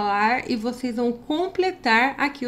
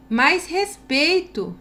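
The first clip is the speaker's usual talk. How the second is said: higher, slow stern rebuke; stern exclamation; 5 semitones higher, slower than usual. Shown as a demonstration. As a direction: demand respect, exaggerated. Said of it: "Ponto de exclamação".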